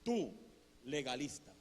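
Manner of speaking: low, deliberate voice of God, broken by a pause; voz de Dios. Retold or imitated. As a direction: set each word down gravely. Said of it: "Así como se lo estoy diciendo". (voz de Dios, grave y pausada)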